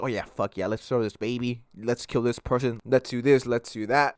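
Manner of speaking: a cocky criminal in the act, muttered low; mock gleeful criminal. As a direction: egg each other on, mockingly. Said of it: "they're like".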